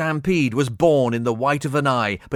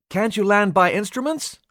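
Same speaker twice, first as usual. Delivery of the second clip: high, anxious plea; fearful; 10 semitones higher than usual. Acted. Baines asking the pilot in fear. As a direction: ask it with fear taking over. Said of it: "fear overriding rational thought".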